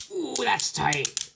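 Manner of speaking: high, drawn-out exclamation; stretched, high-pitched ooh of surprise; impressed surprise. Real, not acted. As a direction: react to something unexpectedly tight. Reacting to a very tight fit.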